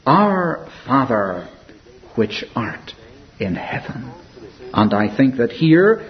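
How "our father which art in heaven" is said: slow, fading into a near-whisper on "in heaven"; reverent prayer. Pretend. Quoting the Lord's Prayer.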